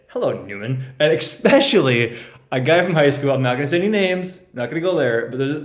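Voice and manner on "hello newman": a lightly mocking "Hello, Newman." with a rising end; a dry, teasing greeting, lightly imitated; Seinfeld-style Hello Newman. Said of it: "He loves when people say".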